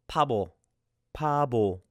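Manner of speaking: 바보 with a light P first and a B second; P then B. Shown as a demonstration. Teacher demonstrates the Korean word for fool. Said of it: "sounds like a P ... sounds like a B".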